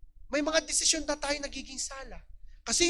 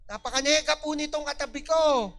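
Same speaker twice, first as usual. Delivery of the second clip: louder repeat; 2 semitones higher, 4 dB louder than usual. Shown as a demonstration. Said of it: "sino dito ang ituturo niya ang kanyang katabi".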